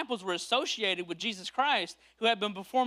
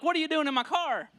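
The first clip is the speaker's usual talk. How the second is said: higher, indignant call across the driveway; alarmed yell; 7 semitones higher than usual. Acted. Car owner yelling at thieves in his driveway, alarmed. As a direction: yell at the strangers in your car. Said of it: "And you're like".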